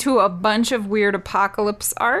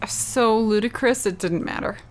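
whispering. Real, not acted. Aside about the film.

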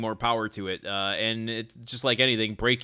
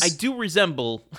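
laughing through it; 5 semitones higher, 3 dB louder than usual. Real, not acted. Laughing while reading the quote.

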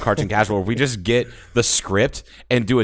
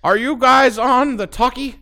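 put-on old-timer voice; 5 dB louder, slower than usual. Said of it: "He's like".

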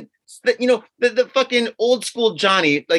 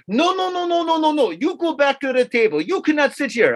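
high, insistent mock waiter scolding; irate waiter; 8 semitones higher than usual. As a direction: shoo him off like an annoyed waiter. Waiter angrily sends him away.

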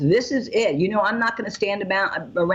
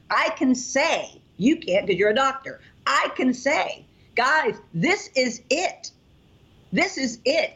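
high and slow, fervent; slow, raised, rallying cry to the guys; passionate declaration; 7 semitones higher, slower than usual. Real, not acted. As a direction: proclaim it like a mother on a mission. Passionate mom declaring the product.

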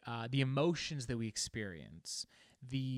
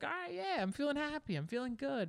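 high, easygoing and unbothered; casual upbeat nod; breezy acceptance. Retold or imitated. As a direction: shrug it off lightly, cheerfully. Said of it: "just sort of be like".

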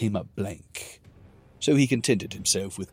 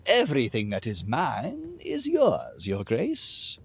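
smarmy simpering; 4 semitones higher than usual. Acted. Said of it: "smarmy, simpering smile".

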